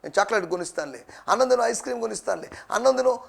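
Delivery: lightly acted parent coaxing a child; a hint of sing-song parental pleading. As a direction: cajole a little one with promises. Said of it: "అని ఏదో బుజ్జగించి".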